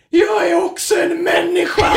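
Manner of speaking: high, loud declaration through laughter; loud proud shout. Retold or imitated. Drunk student shouting at the crowd, loud and proud. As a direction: proclaim it grandly while cracking up. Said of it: "ropar jag högt och ståtligt".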